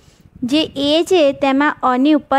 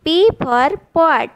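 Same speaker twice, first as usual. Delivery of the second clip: put-on very slow, each word spelled out for kids; slow classroom model reading; slow demo reading; 3 semitones higher, much slower than usual. Shown as a demonstration. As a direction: read it slowly so children can copy. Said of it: "ઉચ્ચાર શીખીશું".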